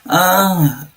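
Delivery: faint and distant; barely audible. Real, not acted. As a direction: off mic, hard to hear. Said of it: "I can barely hear you".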